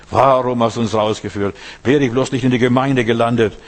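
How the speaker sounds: loud grumbling complaint against God; mock complaint. Preacher mimics a grumbling believer, loudly.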